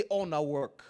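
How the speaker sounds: Nigerian Pidgin-flavoured call to repeat; Nigerian accent. Shown as a demonstration. Preacher prompting the congregation to repeat, Nigerian accent. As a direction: say "All na work" in Nigerian style. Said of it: "in Nigerian accent?".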